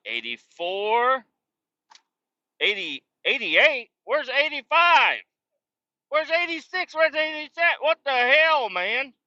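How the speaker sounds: climbing confused complaint; mock bewildered searching. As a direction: act lost and increasingly fed up. Imitating searching for dock numbers.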